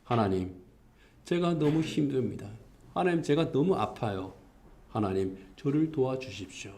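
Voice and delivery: understated pleading prayer; earnest plea. Acted. Sufferer asks God for help in pain, mildly acted earnest plea. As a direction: quietly implore God for help. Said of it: "그렇게 간절하게 하나님의 도우심을 구하는".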